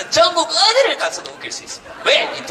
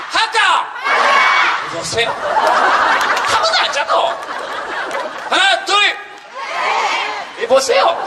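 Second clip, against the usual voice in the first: curt Gyeongsang dialect; 10 semitones higher, 5 dB louder, slower than usual. Pretend. Mimicking terse Gyeongsang crowd replies.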